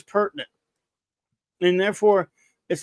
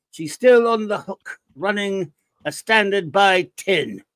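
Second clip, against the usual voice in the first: put-on voice; 2 semitones higher, 3 dB louder than usual. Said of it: "I'll go back to normal".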